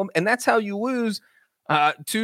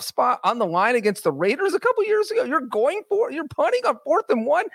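disbelief; 3 semitones higher than usual. Retold or imitated. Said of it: "And I'm like".

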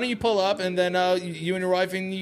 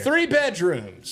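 slow pleading; much slower than usual. Acted. Agent pleading, drawn out.

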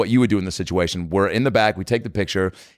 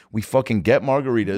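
ordinary talk, nothing marked

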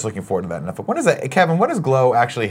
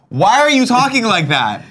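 exaggerated cartoon intonation; 13 semitones higher, 6 dB louder than usual. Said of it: "And it's like".

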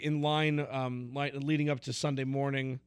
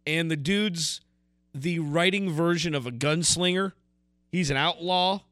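light Southern twang on an outlaw line; a hint of a Southern storyteller accent. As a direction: lean into a Southern drawl like a gunslinger tale. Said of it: "I don't know why I'm talking in a Southern accent".

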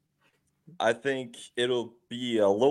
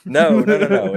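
emphatic denial; 9 semitones higher, 11 dB louder than usual. Real, not acted. Denies the ecstasy guess.

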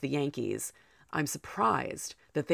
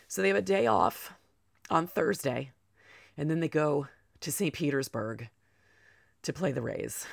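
short of breath from illness; winded, catching breath between phrases. Real, not acted. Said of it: "I'm so sorry for being out of breath".

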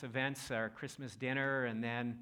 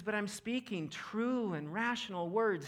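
calm and respectful; 8 semitones higher, slower than usual. Retold or imitated. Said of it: "He's not amping it up".

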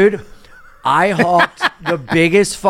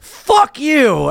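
high, mock-furious curse; sudden indignant outburst, higher pitch; retold angry driver; 7 semitones higher than usual. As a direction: imitate a woman cursing from her car. Retold driver cursing through window.

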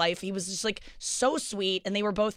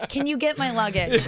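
laughing quote; 4 semitones higher, 4 dB louder than usual. Retold or imitated. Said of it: "he asked me".

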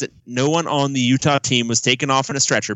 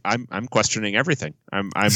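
lightly put-on impression, a little lowered; Rick Neuheisel; 3 semitones lower, 4 dB quieter than usual. Host voices fans questioning everything, in a light coach impression. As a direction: imitate the coach voicing disillusioned fans. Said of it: "doing this in Rick Neuheisel's voice".

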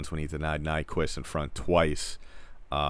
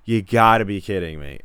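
louder, retold disbelief at the game; mock yell of a fed-up fan; exasperated outburst; 6 dB louder than usual. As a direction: throw the line out like a fan yelling at the TV. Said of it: "yelling every curse in the book".

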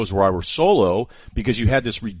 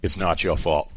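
quoting the movie line; 3 semitones lower than usual. Retold or imitated. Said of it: "the line".

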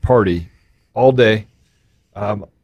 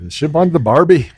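lightly faked Australian accent; mock Australian accent. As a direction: echo it in playful Australian. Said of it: "do the Australian accent again".

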